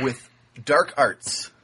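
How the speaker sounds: slow, sinister mock-ominous hint. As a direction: say it like a dark sorcerer. Ominous joke about finishing papers.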